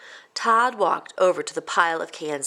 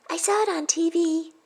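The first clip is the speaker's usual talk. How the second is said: put-on excited little girl; 11 semitones higher than usual. Tina telling friends at lunch about gorillas. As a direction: burst out with a fun fact.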